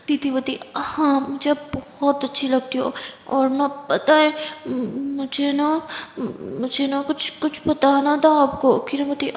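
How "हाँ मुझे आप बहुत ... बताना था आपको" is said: put-on drunk. Drunk sister drawls confession.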